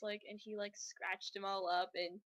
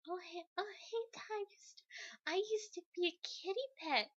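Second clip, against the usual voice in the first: mock Rogue; 9 semitones higher, 3 dB quieter than usual. Voicing Rogue greeting Tiger Star.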